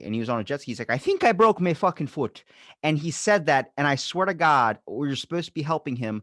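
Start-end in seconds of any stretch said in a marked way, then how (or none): 0.9-2.4 light imitation of an Irish friend's accent. Injured friend calling from a jet ski, imitated Irish accent. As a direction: retell it as the injured Irish coworker, pitched up. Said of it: "Had this thick Irish, Irish accent".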